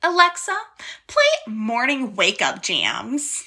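lightly voiced mom calling Alexa; slow, drawn-out mom command; man doing a woman's voice. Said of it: "this one impression of my mom".

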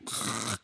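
soft, low burst of breath; imitated exhale. Viewer showing reaction to the ancestors scene, soft exhale. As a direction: let out a quiet, overwhelmed sigh. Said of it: "and I'm just like".

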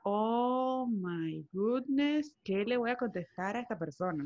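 long drawn-out "oh my goodness"; mock dismay. New receptionist thinking to herself before English-speaking guests, mock dismay. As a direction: stretch the exclamation slowly, then ease into the worried question.

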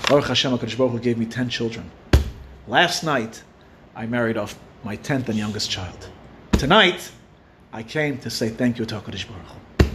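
low, softened storytelling reply; understated, hushed reveal; quiet gratitude. Retold or imitated. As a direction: voice his thanks low and sincerely. Man reveals his reason for gratitude.

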